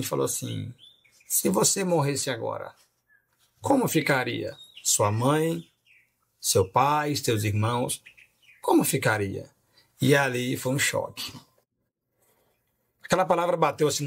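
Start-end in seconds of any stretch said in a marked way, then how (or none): 1.3-9.5 slow, weighty preacher's question; spaced-out phrases, lightly imitating a preacher; radio preacher. Radio preacher asking a listener about sudden death, slow imitated preaching. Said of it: "o João Ribe Palharim estava pregando".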